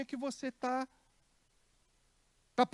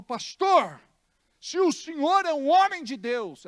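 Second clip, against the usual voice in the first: lightly voiced pleading woman, higher; challenging church sister; 5 semitones higher, 5 dB louder than usual. Church sister challenging her pastor, lightly voiced.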